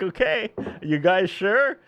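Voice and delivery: retold doubt. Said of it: "It's like".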